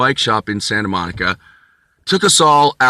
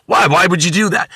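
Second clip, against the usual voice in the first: incredulous; 6 semitones higher, 3 dB louder than usual. Retold or imitated. Tony incredulous.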